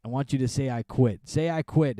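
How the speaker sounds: retold demand, pushed a little harder; mildly forceful quote; demanding wrestler. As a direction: press someone to give up. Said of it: "he says".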